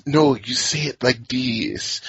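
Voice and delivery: a hint of a Spanish-style Mediterranean accent, slow. Orc's teacher correcting him, light Mediterranean accent. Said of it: "half Antonio Banderas".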